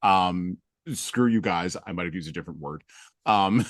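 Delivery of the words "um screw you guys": retold yelling. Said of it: "I yelled at everybody".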